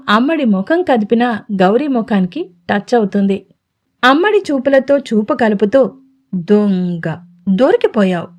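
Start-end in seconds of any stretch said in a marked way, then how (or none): 6.3-8.3 affectionate tease. A narrator's reading. Gauri fondly catching Radhika peeking, low and playful. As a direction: catch her out fondly, lightly voiced. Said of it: "ముద్దుగా ఊటంకిస్తున్నాడు".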